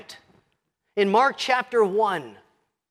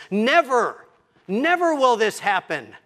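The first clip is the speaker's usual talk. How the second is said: mock protest; 3 semitones higher, 4 dB louder than usual. Peter protests Jesus' prediction.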